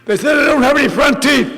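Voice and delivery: put-on high, loud, whining kid voice; whiny complaint. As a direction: whine to Bob like a hurt child. Complaining to sponsor.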